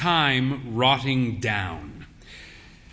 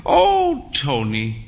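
put-on old mother's voice; slower than usual. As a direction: swoop up in fond mock reproach. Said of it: "she said".

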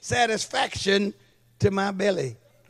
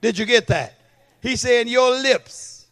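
louder preaching push; 5 dB louder than usual. Real, not acted. Preacher pressing congregation.

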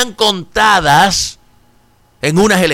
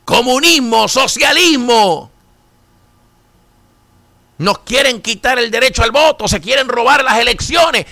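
mock alarmed partisan; 5 semitones higher than usual. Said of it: "Eso es lo que estuvieran diciendo".

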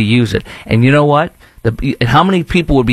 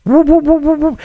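high whoop whoop sci-fi sound; mock force field noise. Host mocking downtown safety with high force field whoops. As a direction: make a silly force field hum. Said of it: "like a force field is around downtown".

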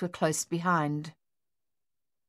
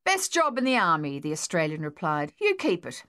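cheeky Australian. Acted. Australian mocks the colonel.

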